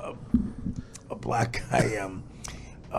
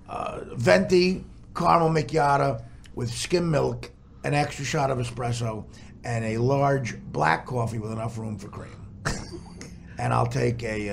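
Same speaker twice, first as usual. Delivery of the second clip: white customer; 10 semitones lower, 9 dB quieter than usual. Pretend. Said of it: "I'll be the white customer".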